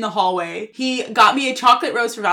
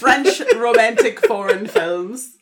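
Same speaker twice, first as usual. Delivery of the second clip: mocking; 4 dB louder, much slower than usual. Real, not acted. Mocking seventh grader's taste.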